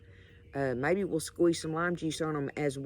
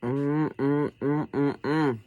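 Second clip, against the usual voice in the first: savoring; 2 semitones lower, 6 dB louder, much slower than usual. Real, not acted. Tasting the shrimp.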